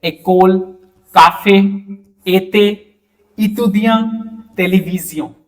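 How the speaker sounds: French words "एकोल, काफे, एते, इतुदिया, टेलीविजन" with slightly drawn-out é; teacher modelling "काफे" and "एते" with a held ए; lightly stretched vowels. Shown as a demonstration. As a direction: say each word apart, gently stretching the ए sound in "एकोल, काफे, एते". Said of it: "हल्का सा इसमें खिंचा हुआ रहेगा".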